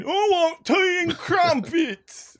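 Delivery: very high, slow posh British caricature; prim and dainty, drawn out in a British accent; mock British accent. Host jokes that all British accents say this, fake British accent. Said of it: "they're all just saying".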